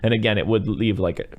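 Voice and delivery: ordinary delivery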